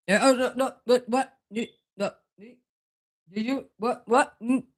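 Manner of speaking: high, laughing no, no, what; startled giggling protest; laughing disbelief. Real, not acted. Reacting laughing to something.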